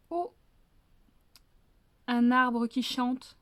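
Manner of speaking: bow and intone it slowly; solemn greeting. Acted. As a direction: fox addressing the tree with ceremony. Fox greets the tree, wrong phrase.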